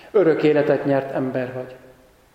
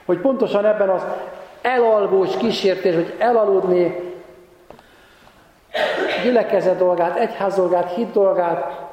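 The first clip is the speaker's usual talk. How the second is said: raised, driving warning; insistent preaching; 5 semitones higher than usual. Real, not acted. Preacher warning the congregation against dozing off, insistent and raised. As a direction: press the point with a higher pitch.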